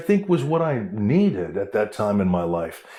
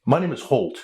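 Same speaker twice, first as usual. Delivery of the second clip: mock menace; 2 semitones higher than usual. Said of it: "just to scare him".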